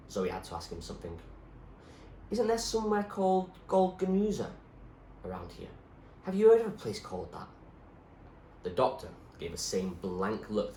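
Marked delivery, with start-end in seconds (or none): 2.3-7.5 put-on higher, eager girl's voice; young girl Zoe. Zoe asking the doctor about her parents, higher anxious voice.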